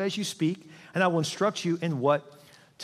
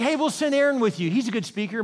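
sly God; 5 semitones higher, 3 dB louder than usual. Acted. God voiced again.

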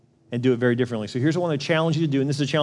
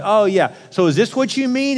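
smug counselor; 5 semitones higher than usual. Retold or imitated. Mock counselor voice to wife.

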